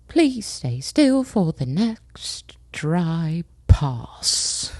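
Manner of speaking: slow breathy whisper of instructions; mock technician whisper. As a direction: whisper it slowly like a technician mid-spray. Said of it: "she's like".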